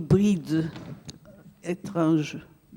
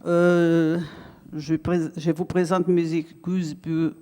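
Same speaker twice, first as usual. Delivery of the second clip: Brazilian accent in French; 4 semitones lower than usual. Real, not acted. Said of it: "mon français est un français brésilien".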